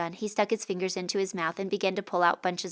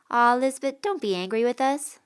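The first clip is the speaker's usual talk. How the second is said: put-on higher, louder coaxing boy; higher boyish plea; pleading boy; 5 semitones higher, 6 dB louder than usual. A narrator's reading. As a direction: coax her like a kid brother.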